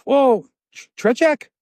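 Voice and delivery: high, hesitant offering; acted hasty correction. Captive trying another player on angry captor, high and tentative. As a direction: stumble into a high-pitched second guess.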